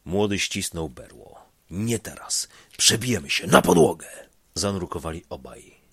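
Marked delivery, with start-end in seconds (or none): 1.7-4.1 loud, fast shouted command; shouted order. Acted. Young driver shouting back to the assistant, fast and loud. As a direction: bark it over the storm.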